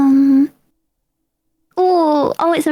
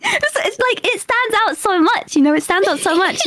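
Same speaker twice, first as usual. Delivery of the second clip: normal talking voice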